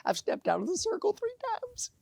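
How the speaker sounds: a high triumphant shout of mischief; gleeful punchline. Retold or imitated. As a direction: deliver the joke shouting with glee. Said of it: "He said".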